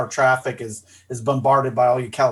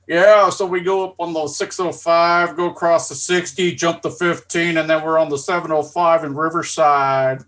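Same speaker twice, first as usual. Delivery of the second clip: put-on Californian accent; 4 semitones higher than usual. Guy mocking Californians giving freeway directions, playful Californian voice. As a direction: lazily rattle off freeway numbers like a local. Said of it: "hearing the Californians".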